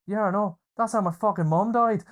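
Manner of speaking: retold outburst. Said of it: "And he goes".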